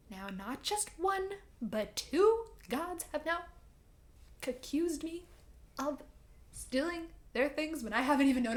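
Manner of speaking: mock outrage at being accused; indignant Percy. Percy protesting to Hades, mildly mock-indignant. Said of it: "He's like".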